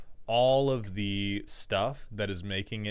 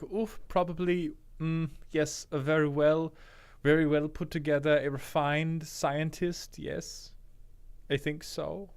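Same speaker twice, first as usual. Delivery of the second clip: put-on high-pitched, vaguely European scientist accent; refined undead scientist with a Germanic-Swedish accent; prim European accent, pitched up; Magic Brian accent; 5 semitones higher than usual. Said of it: "that is what the undead would sound like".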